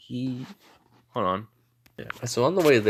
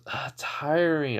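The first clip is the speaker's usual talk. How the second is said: long drawn-out, higher-pitched complaint; weary complaint; 5 semitones higher, much slower than usual. Acted. Princess asked about castle life, slow weary complaint. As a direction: draw it out slowly, worn out.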